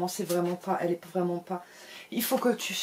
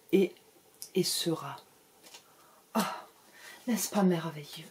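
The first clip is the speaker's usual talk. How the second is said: dreamy psychic voice. Pretend. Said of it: "c'est de nouveau Rose qui parle".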